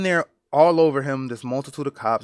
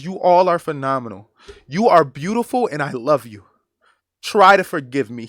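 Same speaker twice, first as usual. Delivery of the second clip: retold plea, pushed louder on the praise; earnest pleading; 5 dB louder than usual. Victim's last words to the cops restraining him, earnest pleading. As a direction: quote him imploring them, emphatic but controlled. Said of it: "he is begging them to let him go".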